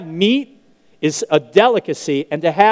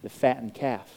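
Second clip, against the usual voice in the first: hushed reveal; 5 semitones lower, 12 dB quieter than usual. Shown as a demonstration. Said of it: "then what does the older son own?".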